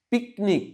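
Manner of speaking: high first syllable পিক in পিকনিক; stress on PIC. Shown as a demonstration. Teacher shows pupils the clap syllable, high stressed পিক in পিকনিক. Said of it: "পিক উচ্চারণের সময় তালি দিতে হবে".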